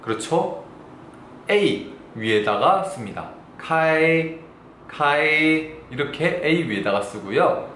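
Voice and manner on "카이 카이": "카이" held long on a level tone; teacher's clear level-tone "카이"; Mandarin word demo. Shown as a demonstration. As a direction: draw out "카이" steadily without dropping. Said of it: "열다가 중국어로 카이입니다".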